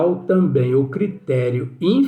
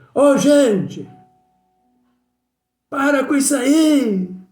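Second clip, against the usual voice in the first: mock very high holler, "aí" stretched long; 11 semitones higher than usual. Retelling how a friend shouted from the window at a noisy church: imitating a friend shouting. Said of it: "saiu na janela e gritou, mais ou menos assim".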